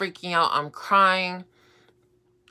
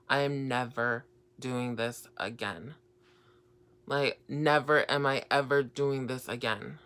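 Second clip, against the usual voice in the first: low, quiet, measured resolve; subdued retold vow; 3 semitones lower, 5 dB quieter than usual. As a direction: recount the vow softly, pitched down. Retold vow while crying in bed.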